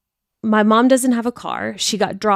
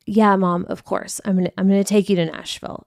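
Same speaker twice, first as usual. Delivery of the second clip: begrudging; faster than usual. Retold or imitated. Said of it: "So begrudgingly".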